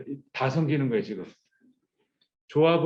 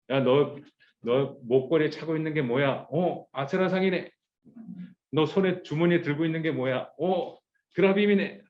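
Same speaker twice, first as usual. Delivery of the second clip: mock interrogator; 3 semitones higher than usual. Searching people for idols.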